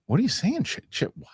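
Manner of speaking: high, bewildered mock reply; confused sketch character. Host acting the confused coworker in the Chit sketch, high-pitched. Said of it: "And he goes".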